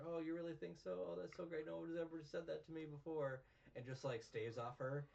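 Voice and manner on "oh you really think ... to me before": mock high voice. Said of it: "She's like".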